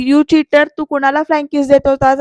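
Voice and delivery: mild mock yell; retold yelling. Jayanti confronting Samir over flying kiss, mild retold yell. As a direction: accuse him with a touch of yelling. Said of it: "असं म्हणून ओरडते जयंती".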